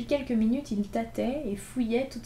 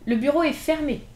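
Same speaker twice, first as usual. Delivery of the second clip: higher, louder mock clerk; mock official; 5 semitones higher, 5 dB louder than usual. Gavroche mocking the passer-by like a clerk. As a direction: play the closed office clerk.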